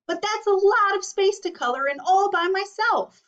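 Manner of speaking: a hint of an exhausted crayon pleading; Gray Crayon's letter. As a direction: groan it out like a tired crayon. Teacher reads Gray Crayon's letter.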